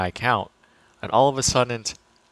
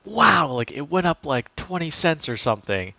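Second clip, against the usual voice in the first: higher, imitating his younger self thrilled at a tiny gain; mock excited wow; 6 semitones higher than usual. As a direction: act thrilled over pocket change, half-joking. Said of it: "I'd be like".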